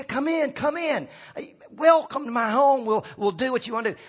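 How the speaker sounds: welcoming host. Pretend. Acted householder welcoming the young couple.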